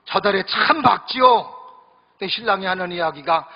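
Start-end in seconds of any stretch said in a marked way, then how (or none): 0.1-1.5 slow sweet standard Seoul speech; sweet Seoul bride. Retold or imitated. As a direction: ask dreamily about the moon. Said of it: "서울 신부가 또 이야기합니다".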